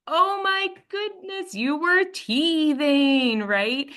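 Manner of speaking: the penny drops, oh of course; sudden realization. Retold or imitated. Realizing baby is teething.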